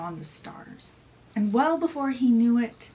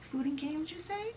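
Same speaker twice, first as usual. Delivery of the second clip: rising high and eager; eager question; 8 semitones higher, 9 dB quieter than usual. Acted. Peter perks up at the party offer, high and eager. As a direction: perk up at the mention of food. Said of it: "Peter's like".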